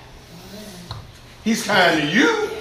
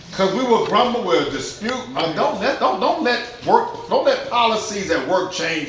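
ordinary talk

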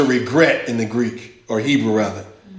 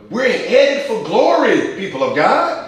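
high, slow and loud, each phrase held out; preaching climax; 10 semitones higher, 4 dB louder, slower than usual. Acted. Preacher rallying the answering congregation, high, slow and loud. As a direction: lift the church to its feet.

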